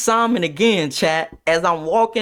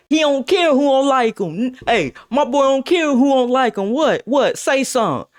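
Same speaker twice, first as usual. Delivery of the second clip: higher, punchy challenges; hype-man bravado; 6 semitones higher than usual. Retold or imitated. Homeboy backing Jay before the class, confrontational. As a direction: imitate a friend daring anyone to object. Homeboy hypes up his friend.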